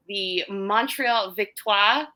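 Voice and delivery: Victoire said slowly with a light French accent. Shown as a demonstration. Listing team names, slowing into a French accent for Victoire. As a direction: lean into French for Montreal Victoire. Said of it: "trying to do my French accent for that one".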